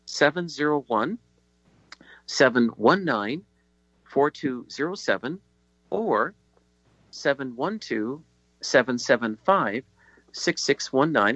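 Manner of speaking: slow digits in spaced groups, with long pauses; slow, deliberate dictation. Real, not acted. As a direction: read it out slowly for someone writing it down. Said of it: "I'll speak slowly so you can write it down".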